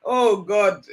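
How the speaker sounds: loud, laughing wow of real surprise; amused amazement. Real, not acted. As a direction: react loudly, tickled by how true it is. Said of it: "I'm just laughing here".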